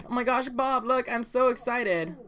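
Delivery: wife breaking her big news to Bob, excited. Retold or imitated. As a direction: play the thrilled wife bursting with news. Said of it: "So Eliza's so excited".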